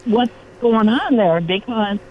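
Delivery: ordinary talk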